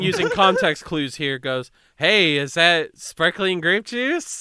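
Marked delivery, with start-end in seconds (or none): 2.0-4.4 very slow, higher and louder, drawn-out question; naive question. Retold or imitated. Friend asks the aunt about her bottle, slow, high, hammed-up. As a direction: ham up the friend's innocent disbelief. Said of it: "it literally says it like that".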